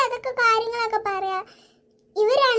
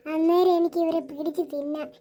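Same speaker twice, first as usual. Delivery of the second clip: low, laughing ghost threat; lower, laughing menace; evil chuckle; 5 semitones lower than usual. Acted. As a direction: gloat with a sinister laugh. Ghost gloats.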